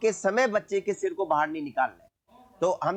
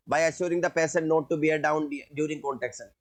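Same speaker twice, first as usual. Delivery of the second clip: slow dictation; much slower than usual. Shown as a demonstration. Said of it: "ये कैसे करोगे?".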